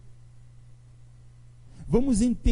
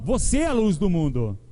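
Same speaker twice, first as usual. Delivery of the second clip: like announcing a promotion. Shown as a demonstration. Preacher to the congregation, as if announcing good news of a promotion. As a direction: tell them as if they got promoted. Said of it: "fala com quem tá dando uma notícia de promoção".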